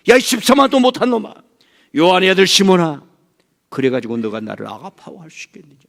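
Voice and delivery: high, loud scolding yell; furious rebuke. Acted. Jesus rebuking the preacher by name, furious shout. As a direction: tear into him like an angry master. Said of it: "권사님들 마찬가지".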